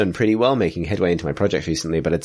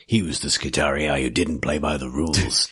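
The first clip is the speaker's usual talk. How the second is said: movie trailer voice; 3 semitones lower than usual. Pretend. Mock action-hero movie tagline.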